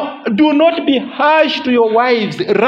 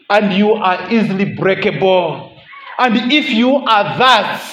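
tender vow; 2 semitones lower than usual. Retold or imitated. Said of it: "he is saying to them".

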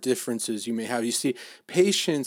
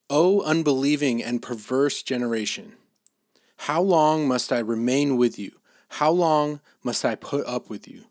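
louder, declaimed scripture reproach; exasperated rebuke; 5 dB louder than usual. Retold or imitated. Jesus rebuking the unbelieving generation, exasperated. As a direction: quote a weary rebuke with some force.

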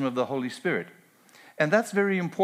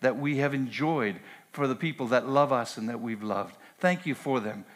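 prayer. Acted. Pastor leads closing prayer.

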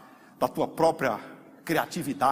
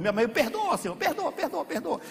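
higher, begging with a crack of laughter; tearful pleading prayer; 8 semitones higher, 3 dB louder than usual. Retold or imitated. Believer weeping in prayer for the brother who hurt him. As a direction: cry out forgiveness over and over. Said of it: "chorando por ele".

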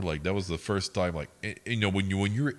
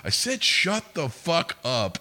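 slow, raised, louder mock yell; retold angry repeat; 10 semitones higher, 6 dB louder, slower than usual. Girl repeating it to the customers, retold angry yell. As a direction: imitate her doubling down, dragging the words out.

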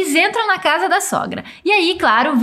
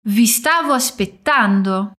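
slower, each syllable of "Vi stavo aspettando" spaced out; slow for repeating; 6 semitones lower than usual. Shown as a demonstration. Teacher slowing down for the student to repeat. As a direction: say it slowly so the student can copy. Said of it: "Ripeti dopo di me".

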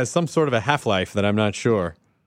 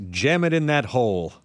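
put-on childish; 3 semitones higher than usual. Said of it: "Let me childishly say".

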